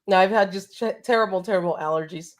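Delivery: stuffy, blocked-up nose; congested voice. Real, not acted. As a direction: talk with allergies clogging you up. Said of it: "I'm all congested and my voice is terrible right now".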